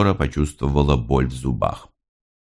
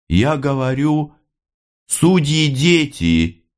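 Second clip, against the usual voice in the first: "судьи дети" stretched slow and higher; slow weary repeat; 10 semitones higher, slower than usual. A narrator's reading. Mother repeating to the officer, slow and heavy. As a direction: drag the words out wearily. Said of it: "повторила она, вздыхая".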